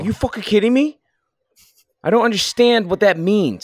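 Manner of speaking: high-pitched Northeast Italian-American exasperation; upset Italian accent. Shown as a demonstration. Demonstrating an upset accent for friends, exasperated Northeast Italian. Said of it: "I get a Italian accent when I get upset".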